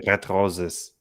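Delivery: "red roses" with German R's and hard endings; German pronunciation of "red roses"; full German accent. Shown as a demonstration. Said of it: "I go full German".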